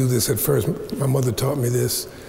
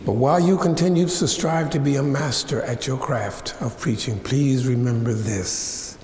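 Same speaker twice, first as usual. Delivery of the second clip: solemn advice. Retold or imitated. Mother's slow solemn advice.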